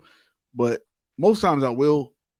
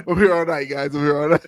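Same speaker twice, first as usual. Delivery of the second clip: comedian bit; 4 dB louder than usual. Pretend. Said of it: "Please don't be with them jokes".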